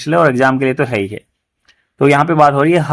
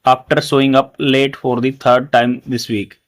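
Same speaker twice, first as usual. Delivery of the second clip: slow example reading; much slower than usual. Shown as a demonstration. Teacher reading the example sentence to students, very slowly. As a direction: read "he had the effrontery" very slowly, word by word.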